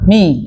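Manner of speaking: "Mi" with an i vowel; read as mi. Shown as a demonstration. Teacher correcting a student who read ma, mi. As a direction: say Mi as one open syllable. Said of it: "itu bacanya mi kayak gitu".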